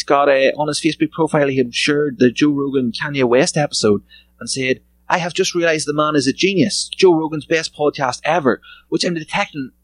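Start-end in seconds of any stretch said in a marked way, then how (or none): 5.1-8.6 mock-earnest praise, pitched up; sarcastic praise. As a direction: read the post with a twang of sarcasm. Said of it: "a twang of sarcasm".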